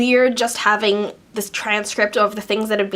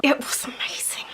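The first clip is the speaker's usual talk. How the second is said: hushed, breathy aside; conspiratorial whisper; 8 dB quieter than usual. Real, not acted. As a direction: drop to a secret whisper. Gushing aside about awkward dance.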